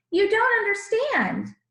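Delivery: high, loud indignant outcry; angry shouting crowd. Acted. The crowd shouting about the cheat, loud and indignant. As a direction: rant at him, slowing on cheats us. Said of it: "they shouted".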